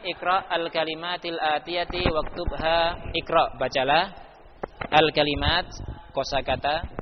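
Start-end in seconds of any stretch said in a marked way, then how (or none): 0.0-3.1 slow, measured reading of Arabic; formal recitation. Shown as a demonstration. Teacher reading exercise instruction, slow and measured. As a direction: read the Arabic instruction slowly and deliberately. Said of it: "reads exercise instruction slowly".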